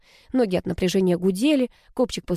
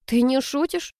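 stunned; 6 semitones higher than usual. A narrator's reading. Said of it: "переспросила ошарашенно Рита".

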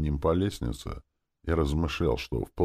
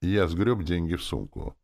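usual speaking voice

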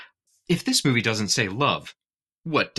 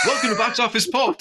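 monster truck ad; 13 semitones higher than usual. Pretend. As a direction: yell it like a Sunday-Sunday-Sunday promo. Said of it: "I wanna do, like, a monster truck rally".

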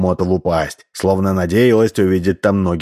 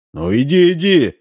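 commanding; 9 semitones higher than usual. A narrator's reading. Grubin ordering the hippo away, commanding. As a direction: order the animal to move off. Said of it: "приказал он".

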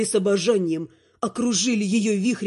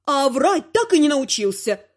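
упрёк бабули; 6 semitones higher than usual. Acted. Бабуля добивает внука.

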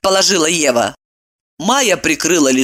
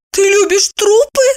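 high astonished question; shocked, high-pitched asking; surprised; 4 dB louder than usual. Acted. Evdokia asking friend in astonishment, high surprised. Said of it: "Евдокия удивлённо спросила".

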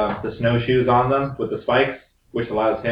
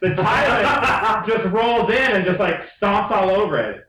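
laughing; 7 semitones higher, slower than usual. Real, not acted. Laughing while retelling.

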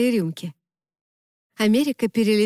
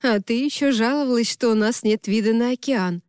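teasing. Acted. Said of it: "поддразнила Хармони".

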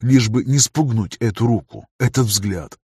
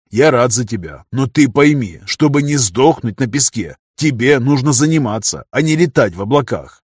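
put-on firm, mildly admonishing older trainer; a hint of gruff concern; lightly voiced stern mentor; 2 semitones higher, 4 dB louder than usual. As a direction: lecture the trainee with understated force.

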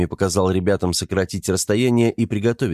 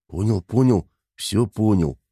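babbling. A narrator's reading. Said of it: "залепетал мужичок".

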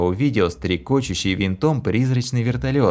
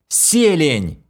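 shouted command word; 7 semitones higher than usual. A narrator's reading. Hero tries another.

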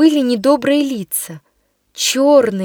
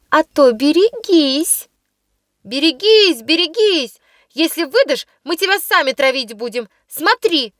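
mock threat; 4 semitones higher than usual. Girls threatening the new girl, raised mock menace.

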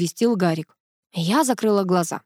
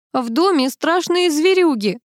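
high, slow, alarmed shout; 8 semitones higher than usual. A narrator's reading. Antonina bursts into the room, shouting in alarm. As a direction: burst in crying out the danger. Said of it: "закричала Антонина".

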